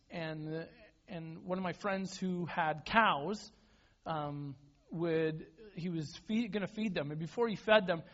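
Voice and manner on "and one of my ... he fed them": ordinary talk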